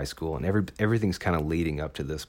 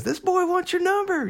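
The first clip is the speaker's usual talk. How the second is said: very high, loud, rowdy redneck yell; redneck holler; 5 dB louder than usual. Retold or imitated. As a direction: holler it wildly on a friend's behalf. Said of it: "like, this redneck dude".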